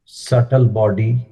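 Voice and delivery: measured meditation guidance with long pauses; unhurried phrases, leaving room to breathe; guided meditation. Acted. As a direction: guide a seated group through breath and stillness.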